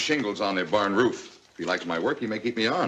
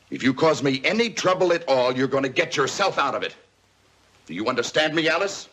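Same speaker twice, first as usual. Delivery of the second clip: angry threat; 4 semitones higher than usual. Acted. Father threatens daughter angrily.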